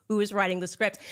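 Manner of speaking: whispered aside in disbelief; incredulous whisper. Retold or imitated. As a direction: breathe it like a stunned bystander. Disbelief at the absurd scene.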